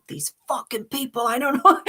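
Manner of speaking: baffled tourist losing it, played for laughs; retold panic. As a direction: throw up your hands in comic, high-pitched panic. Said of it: "just in a complete panic".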